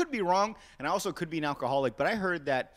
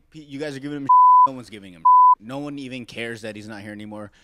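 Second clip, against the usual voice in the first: laughing; 2 semitones lower, 8 dB louder, faster than usual. Real, not acted. Laughing while talking.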